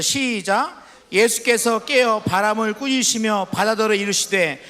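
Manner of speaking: measured, formal Bible reading; scripture reading. Acted. Pastor reading Mark chapter four aloud, formal and measured. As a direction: read the verses to the congregation with weight.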